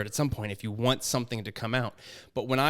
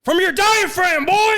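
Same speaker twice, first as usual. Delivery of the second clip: very high, loud mock drill yell; shouted coaching; 10 dB louder than usual. Teasing co-host as theater teacher, hammed-up shout. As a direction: belt it out like an overbearing acting coach. Acted coach yelling about throaty voice.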